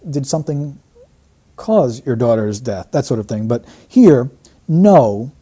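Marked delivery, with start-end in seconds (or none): 0.1-2.9 asking question. Retold or imitated. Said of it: "we'd also have to ask". 4.7-5.3 a weighted no; imitated emphatic no. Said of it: "that's an emphatic no".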